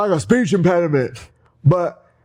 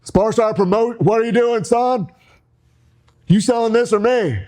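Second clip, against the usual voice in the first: higher, hyped-up ring promo; wrestling promo; 4 semitones higher than usual. Pretend. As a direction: finish the promo to pump up the fans. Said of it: "I'm gonna bring it home right now".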